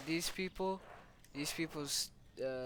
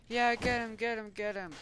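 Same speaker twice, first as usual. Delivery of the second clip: higher, excited play-acted urging; mock egging-on; 7 semitones higher, 4 dB louder than usual. Everybody else cheering on the attack, mock excitement. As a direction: urge the gang on in pretend excitement.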